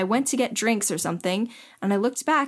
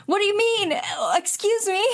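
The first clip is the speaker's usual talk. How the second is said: high-pitched, incredulous protest; indignant disbelief; 11 semitones higher than usual. Real, not acted. Storyteller asked what the big deal is, high indignant disbelief. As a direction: pitch it way up, affronted and baffled. Challenged on her story by co-host.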